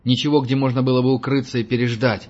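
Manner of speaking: shouting over noise. Acted. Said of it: "крикнул Герман сквозь шум".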